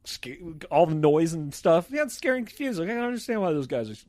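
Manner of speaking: lightly voiced dog. Dog hearing the guys yell, lightly voiced timid pet. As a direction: lightly play a confused, scared dog. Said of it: "he's like".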